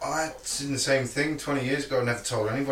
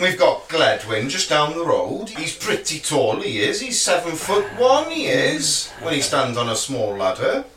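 put-on Welsh accent; 3 semitones higher than usual. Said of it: "my best Welsh accent".

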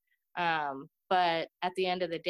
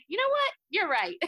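sudden realization; 12 semitones higher, 4 dB louder than usual. Retold or imitated. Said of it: "And I was like".

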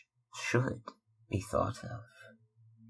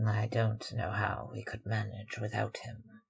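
querulous; 7 dB quieter than usual. Acted. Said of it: "answered the elder woman querulously".

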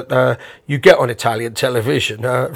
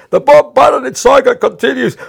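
TV host announcing; 10 semitones higher, 4 dB louder than usual. Retold or imitated. Host teasing Bob on air, loud showman announcement. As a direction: proclaim it like a soap-opera trailer. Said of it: "haranguing Bob with this Daniela saga".

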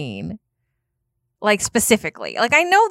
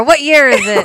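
excited shout; 6 semitones higher, 9 dB louder than usual. Pretend. Bursting through door, time traveler.

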